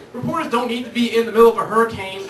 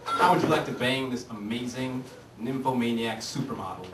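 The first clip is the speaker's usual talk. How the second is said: lower, softer salesman pitch; little voice; 7 semitones lower, 9 dB quieter than usual. Pretend. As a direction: tempt him softly, lower. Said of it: "a little voice that popped up".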